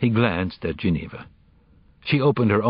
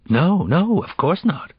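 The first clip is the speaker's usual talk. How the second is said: quickly; 9 semitones higher than usual. A narrator's reading. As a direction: rush to deny it, caught out. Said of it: "Hanson said quickly".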